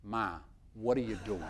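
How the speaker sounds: a hint of a son catching his mother out, kept low; lightly voiced grown son, puzzled at Ma; son's startled question. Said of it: "And he looks at the woman and he says".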